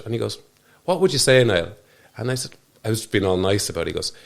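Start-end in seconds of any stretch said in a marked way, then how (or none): 0.8-1.7 pressing insistently. Retold or imitated. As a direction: repeat it, demanding a real answer. Therapist repeats question insistently.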